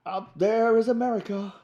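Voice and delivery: high, mock-dramatic rock-star speaking voice; a light imitation of a rock singer talking mid-song; spoken rock-star line. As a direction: intone it like a rock singer talking over the song. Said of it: "Bonio's talking".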